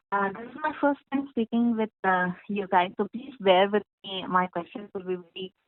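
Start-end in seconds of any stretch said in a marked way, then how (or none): 0.1-4.3 breaking-up phone audio; choppy line cutting in and out; glitchy robotic call. Real, not acted. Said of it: "the audio is breaking from your line".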